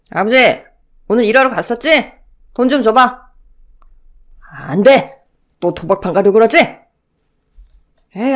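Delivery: loud, high-strung fight over money; both men shouting over the day's wages; heated family quarrel. Acted. Father demanding grandfather's wages, shouting quarrel.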